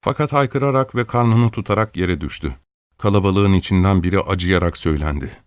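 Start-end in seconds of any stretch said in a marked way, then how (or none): none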